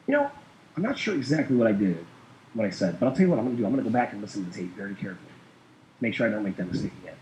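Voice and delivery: low, quick, soft deadpan; staying calm. Retold or imitated. Caller kept being corrected on the call, calm and soft. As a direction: answer the correction calmly, voice kept down. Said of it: "I just stayed calm".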